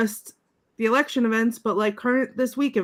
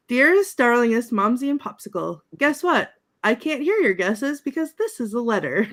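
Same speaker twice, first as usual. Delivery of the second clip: high, gushing salutation, lilting on; sing-song sweetness with big pitch swoops; Glinda reading her letter; 4 semitones higher than usual. Acted. Acting Glinda's letter home.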